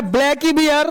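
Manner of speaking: each word drawn out slowly; slow, deliberate storybook reading; slow read-aloud. Shown as a demonstration. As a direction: read it slowly, letting every word land. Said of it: "इसको पढ़ना है".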